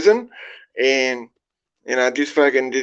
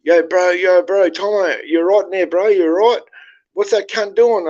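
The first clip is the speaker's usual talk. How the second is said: retold yell through the vent; 5 semitones higher than usual. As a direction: call out to your mate next door, pitched up. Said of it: "was fucking yelling out through the vent".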